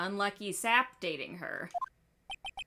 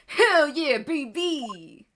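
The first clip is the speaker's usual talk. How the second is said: hyped cheer; 4 semitones higher, 7 dB louder, much slower than usual. Acted. Psyched up for the case.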